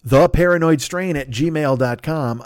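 slow and deliberate; slow, spelled out. Shown as a demonstration. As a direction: read the address out slowly. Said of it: "write him a note at this address".

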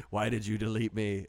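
lightly voiced flat monotone drone; a hint of a bored actor reading; Ben Affleck monotone. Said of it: "he could come in and do his monotone".

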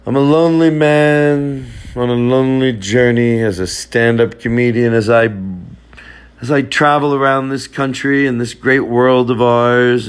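mock-epic lonely voiceover; grand mock narration. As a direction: intone it like a movie trailer. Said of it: "maybe I'm just lonely".

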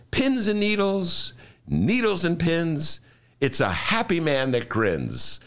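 slow, singsong chanted mantra; Jackie Gleason mantra. Retold or imitated. Imitating Jackie Gleason chanting his calming mantra slowly. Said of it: "And he would say".

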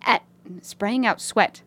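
put-on British accent, a touch subdued. Fixing a slip in the email, British accent. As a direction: correct the line in a British accent. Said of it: "read this in a British accent".

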